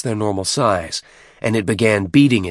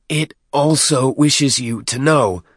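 slow, high-pitched reluctant squeal; squealing underling; 5 semitones higher, slower than usual. A narrator's reading. Deacon nervously translating for the chieftain, squealing. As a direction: squeeze it out high and haltingly. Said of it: "voice was now a muffled squeal".

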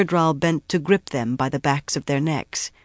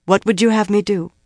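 firm, raised voice; regained strength; 5 semitones higher, 4 dB louder, faster than usual. A narrator's reading. Grendal kneeling before the Myrddraal, voice strong again. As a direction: ask it higher, with strength regained. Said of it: "Her voice had regained its strength".

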